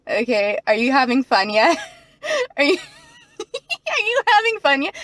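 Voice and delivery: mock taunting. Mocking the light in her face.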